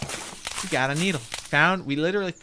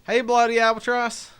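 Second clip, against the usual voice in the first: put-on cowboy accent; 6 semitones higher, 4 dB louder than usual. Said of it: "The accent is fine".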